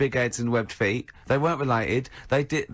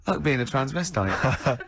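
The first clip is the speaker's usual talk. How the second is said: slow, amused "Like being a transvestite" with a laugh, drawn out; mock inner voice; slower than usual. Imitating Carl's private thought, slow and amused. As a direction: chuckle through "Like being a transvestite" slowly. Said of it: "in his own mind, just goes".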